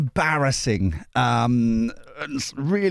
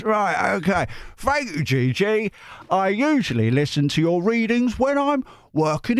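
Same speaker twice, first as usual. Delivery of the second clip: high, hammed-up Australian-Cockney accent; Dick Van Dyke Cockney; 6 semitones higher than usual. Reader voices a letter from Chris, hammed-up Cockney. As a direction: put on an embarrassingly bad musical-chimney-sweep Cockney. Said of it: "kind of Australian Cockney kind of accent".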